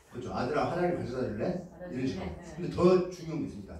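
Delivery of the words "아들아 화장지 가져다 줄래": softer, lower asking tone, rising end; gentle question. Shown as a demonstration. 아들에게 부드럽게 묻는 엄마. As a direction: ask kindly instead of ordering. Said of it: "질문을 바꿔보세요".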